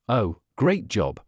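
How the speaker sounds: slow, drawn-out sarcastic praise. Shown as a demonstration. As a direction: say it like you mean the opposite. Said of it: "if you sarcastically say".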